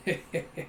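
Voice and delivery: short breathy character chuckle; mock chuckle. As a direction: give a brief acted heh-heh. Imitates Zeka's chuckle.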